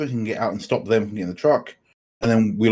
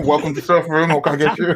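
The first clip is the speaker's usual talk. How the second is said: crappy, pitched-up fast-food intercom speaker voice; 5 semitones higher than usual. In the server room, the speaker plays a crappy drive-through speaker voice. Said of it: "We we sound like a drive-through".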